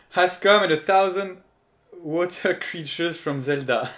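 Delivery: laughing while reading the line; reading through laughter. Real, not acted. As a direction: giggle through the English words. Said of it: "reading with laughter". (lecture en riant)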